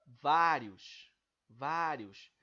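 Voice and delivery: vários loud and emphatic, final io in one glide; vowels together. Shown as a demonstration. Teacher demonstrating joined vowels, vários loud with io in one emission. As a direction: punch the first syllable of vários, run io together. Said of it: "essas duas vogais estão sendo emitidas juntas".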